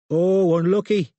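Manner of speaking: grinning mockery. A narrator's reading. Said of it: "with a broad grin".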